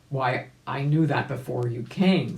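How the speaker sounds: a hint of an impatient old gentleman; old rabbit retorting. Old rabbit answering the doctor, lightly voiced and testy. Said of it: "said the old gentleman rabbit".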